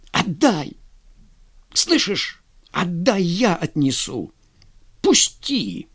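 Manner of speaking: high, urgent demand to let go; snatching at the shawl, insisting. Acted. Vladimir tugging at Fyodor for the shawl, high urgent demand. Brothers fight over shawl.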